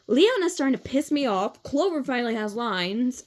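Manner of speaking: plain reading voice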